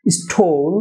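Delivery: স্টোল with long o and dark l; "STOUL" for স্টোল; correct pronunciation. Shown as a demonstration. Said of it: "হবে স্টোল". (স্টোল-এর সঠিক উচ্চারণ, লম্বা "ও")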